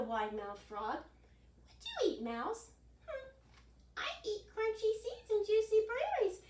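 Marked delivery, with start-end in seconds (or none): 1.7-2.7 frog voice. Acted. Frog asks the mouse. 3.1-6.4 little mouse voice. Acted.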